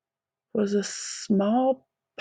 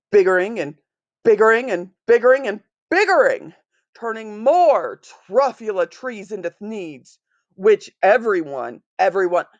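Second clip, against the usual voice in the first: yelling at the Lorax. Acted. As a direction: shout him down, hammering biggering. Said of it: "I yelled at the Lorax".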